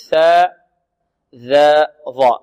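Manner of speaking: "ثاء، ذا، ظاء" slowly, each from the tongue tip at the upper teeth; interdental letters. Shown as a demonstration. Teacher shows one articulation point, interdental "ثاء، ذا، ظاء". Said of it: "من مخرج الذال".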